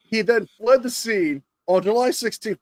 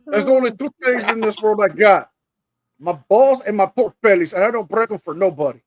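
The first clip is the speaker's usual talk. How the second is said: Tony Montana impression. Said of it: "Tony Montana".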